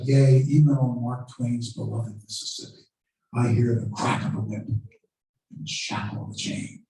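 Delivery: a light, understated take on Douglass declaiming, last words sinking to a breath; hint of a theatrical orator, fading off; mock stage oratory. Lecturer imitates Douglass acting an escape on stage, mild oratory. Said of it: "He would say things like".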